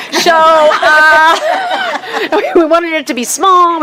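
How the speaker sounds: breaking into high laughter mid-sentence; giggling as the memory comes back; laughing. Real, not acted. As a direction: laugh through the words. Laughing while recounting.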